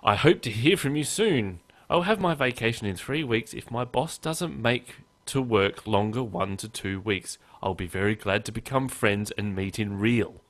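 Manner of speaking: lilting start, settling into a deliberate read; put-on pen-pal reading voice; mock email reading. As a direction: read the clumsy letter aloud, word for word. Reading a spam email aloud.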